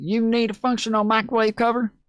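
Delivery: high, very country woman's drawl. Retelling a video clip, imitating a very country woman. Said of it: "But the way she says it".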